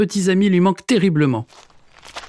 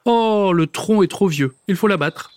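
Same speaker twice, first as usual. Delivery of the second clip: grumbling; 5 semitones higher than usual. Acted. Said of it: "arrive en râlant".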